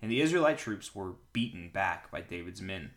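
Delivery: clear, projected Bible reading; story narration. A narrator's reading. Pastor reads a battle account to listeners, clear narration. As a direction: read the account out to a congregation.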